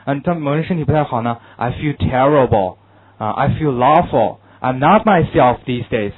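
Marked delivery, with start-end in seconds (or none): 1.6-6.1 gloomy, falling tone. Shown as a demonstration. Teacher showing students how poor health sounds, glum and falling. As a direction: demonstrate feeling unwell with falling intonation. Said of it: "语气非常郁闷啊，一般都是用降调的".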